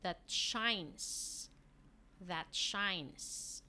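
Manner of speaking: "that shines" said clearly, with the weight on "that"; teacher modelling "that shines"; model reading. Shown as a demonstration. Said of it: "you say this".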